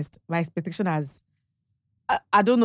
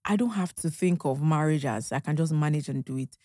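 touched musing; 3 semitones lower, 4 dB quieter than usual. Retold or imitated. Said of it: "I'm like".

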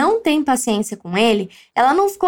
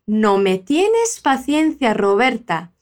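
slow model line; 4 semitones lower, slower than usual. Shown as a demonstration. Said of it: "E o Carlos diz".

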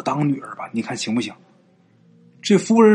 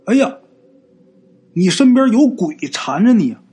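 higher-pitched alarmed warning; a touch of startled alarm; startled Taoist; 5 semitones higher than usual. Acted. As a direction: exclaim in mild shock. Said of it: "一看他就很吃惊".

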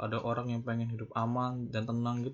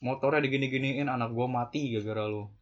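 mock grieving parent's anger. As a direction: act out the blaming parent, lightly. (orang tua marah menuduh bengkel)

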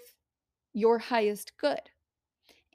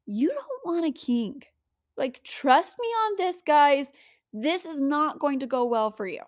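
higher, mock-patient divine voice; lightly voiced exasperated God; 4 semitones higher than usual. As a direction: play God gently warning the people. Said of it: "and God is like".

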